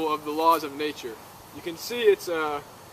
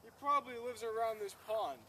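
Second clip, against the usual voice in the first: much softer wildlife narrator voice; hushed documentary narration; 4 semitones higher, 18 dB quieter than usual. Acted. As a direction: narrate softly so the goose stays calm. Hushed narration near goose.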